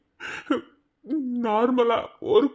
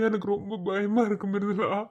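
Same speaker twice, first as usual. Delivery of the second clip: tearful; 3 dB quieter than usual. Acted. Husband crying over wife's pain.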